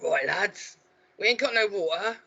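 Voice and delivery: put-on London geezer. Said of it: "I've just gone Kensington".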